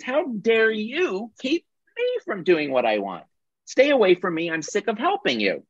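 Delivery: sick of helping, let it burst out; fed-up rescuer. Acted. Rescuer turned persecutor snapping at the victim, hammed-up anger. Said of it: "the rescuer might end up".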